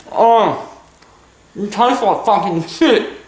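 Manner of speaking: a lightly voiced young boy presenting a cooking show; a hint of a little boy's voice, proud and chatty; childish kid host. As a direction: play the cheeky kid showing his recipe.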